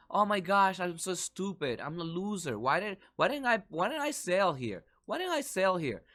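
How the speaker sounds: mock panic. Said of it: "don't start yelling".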